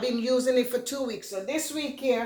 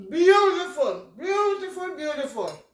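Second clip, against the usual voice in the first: delighted; 4 semitones higher than usual. Real, not acted. Delighted tasting her burrito.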